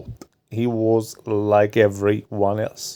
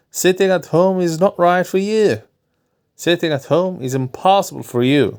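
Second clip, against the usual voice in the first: a lightly voiced doctor, a bit higher; doctor's voice; 5 semitones higher than usual. Doctor advising his nervous patient, lightly voiced.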